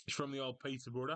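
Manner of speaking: put-on Birmingham twang, lightly done; Brummie accent. Streamer placing a mate from Peterborough, accidental Brummie accent. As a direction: slip into a mock Brummie accent. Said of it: "I don't know why I went Brummie".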